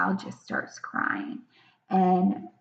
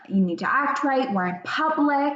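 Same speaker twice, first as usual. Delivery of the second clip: quick, higher-pitched mock scolding; reactive scolding; 5 semitones higher, faster than usual. Parent correcting child in public, mildly cross scolding. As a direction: reprimand a child, lightly acted. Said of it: "in more of a downstairs brain".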